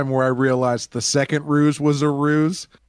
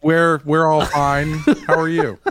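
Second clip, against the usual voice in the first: unsure impersonator; 5 semitones higher, 5 dB louder than usual. Acted. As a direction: lightly play a nervous bluffer stalling for words. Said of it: "unsure of himself speech pattern".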